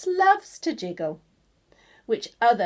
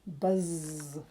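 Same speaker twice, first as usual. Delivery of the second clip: soft buzz; 6 semitones lower, 8 dB quieter than usual. Shown as a demonstration. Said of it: "It says buzz here".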